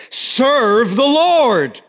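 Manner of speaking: Serve the Lord slow and loud, every word weighted; preacher stressing the key command; emphatic climax. Real, not acted. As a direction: land the punchline of the verse. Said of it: "Here it is".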